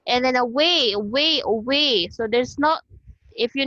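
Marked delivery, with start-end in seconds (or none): 0.3-2.1 "away" with a barely sounded first A; schwa pronunciation. Shown as a demonstration. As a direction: reduce the start of "away" to a weak uh before WAY. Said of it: "murag walay sound ah".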